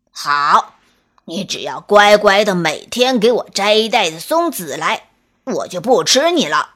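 low, gruff wolf laying down terms; a hint of a smug bully; storybook wolf striking a deal; lightly voiced wolf. Wolf sets his terms.

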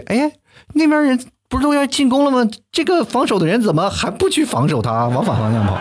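high, puzzled mock voice of a clueless fan; 不懂球的人. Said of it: "那不懂球的人以为". (高声模仿不懂球的人)

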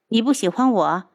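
sneering question with a cold laugh; mock her with a cold smirk. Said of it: "楚清瑶冷笑道".

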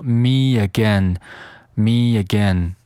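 "me again" joined with a y glide; "me again" linked through a y; added linking sound. Shown as a demonstration. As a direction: slide from "me" into "again" as me-yagain. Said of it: "添加连读".

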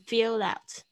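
"fill out" run together as "fi-lout"; linked fill-out. Shown as a demonstration. Teacher demonstrates "fill out", linked pronunciation. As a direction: carry the L of "fill" into "out". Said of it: "有一个连音".

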